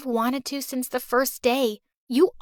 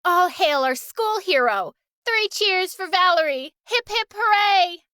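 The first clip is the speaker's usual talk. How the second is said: high, loud cheering chant; rally the whole school behind her; crowd cheering; 7 semitones higher, 3 dB louder than usual. Acted. Crowd cheering their new school hero, excited.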